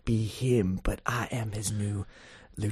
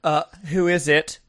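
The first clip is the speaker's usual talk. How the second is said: calling out; 5 semitones higher, 8 dB louder than usual. Acted. Character calls through the door.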